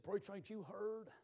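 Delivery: very soft retold voice; subdued reply. Young preacher Levi answering with dropped head, subdued.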